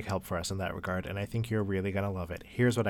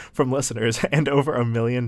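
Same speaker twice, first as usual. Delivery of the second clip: laughing; 4 semitones higher, 8 dB louder than usual. Real, not acted. Laughs during ad read.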